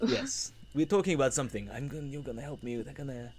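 hammed-up bad Russian accent; scheming villain in a Russian accent; the speaker's Russian accent. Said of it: "I'll try and do my Russian accent again".

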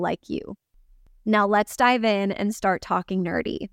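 measured scripted host introduction; podcast intro read. Acted. Host introducing a guest to podcast listeners, scripted intro read.

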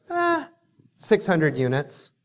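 yawned-out bored answer; yawning. Retold or imitated. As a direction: say it mid-yawn, unimpressed. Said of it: "hence the yawning".

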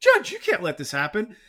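high, loud pleading whine; mock a lawyer begging the judge; whiny lawyer. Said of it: "the defense lawyer would be like".

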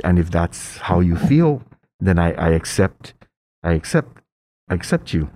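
tender words, slowing and softening to a halt; close to tears. Retold or imitated. Mom accepting her gay son, retold close to tears. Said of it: "Oh my gosh, I'm gonna cry".

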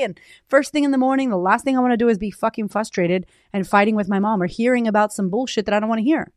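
ordinary talk

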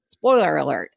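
Spoiler alert run together, sounds blurred; slurred, quick spoiler alert; smushed together. Shown as a demonstration. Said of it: "we're kind of smushing it together".

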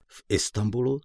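a light, rising note of surprise on „V Istanbulu?“; gently puzzled, asking back; mildly surprised question. Acted. Friend asks back about Istanbul, lightly surprised. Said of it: "zeptal se mě udiveně".

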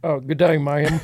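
hammed-up Aussie "good day, ma'am"; bad Australian accent; mock Australian accent. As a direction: greet like a cartoon Aussie, loud. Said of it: "these guys trying to talk Australian".

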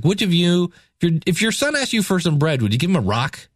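lightly sarcastic rhetorical question. Retold or imitated. Preacher quoting Jesus's question about bread, lightly sarcastic. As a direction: quicken the question, then let it fall with mild sarcasm. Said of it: "Jesus is kind of being sarcastic".

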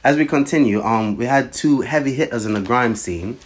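imitation British presenter accent; put-on British accent. Introducing two grime artists, put-on British accent. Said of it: "we're gonna do this all in a British accent".

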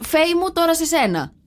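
presenter's handover. Retold or imitated. Host hands over to co-presenter on air, mock presenter handover. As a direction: lightly imitate a host passing to the co-host. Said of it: "απλά θα λέει ο Γιώργος".

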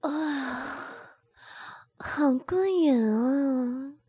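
high, drawn-out delighted cry; excited cry. A narrator's reading. Woman to her friends, a slow excited cry. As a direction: let it out, slow and thrilled. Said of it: "陈娜才叫了一声".

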